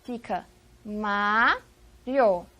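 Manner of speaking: Mário drawn out very slowly, syllable by syllable; syllables split apart. Shown as a demonstration. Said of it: "Separemos essa palavra em sílabas".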